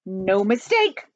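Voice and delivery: slow, firm denial; mildly barked, each word weighted; stern drawn-out retort. Acted. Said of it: "barked the president".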